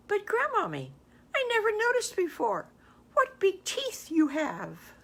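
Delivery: put-on a small girl realising the danger; high storybook girl, dragging out the teeth line; frightened little girl.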